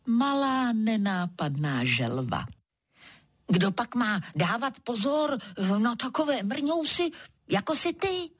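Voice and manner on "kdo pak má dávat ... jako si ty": a higher, mild retort; snapping back. Acted. Zebra retorts to the tortoise, mild snappy tone. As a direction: snap back at the tiny tortoise.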